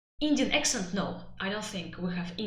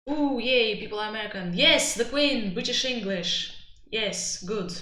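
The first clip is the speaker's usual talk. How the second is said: mock British snob; 5 dB louder than usual. Mock British snob praising accent.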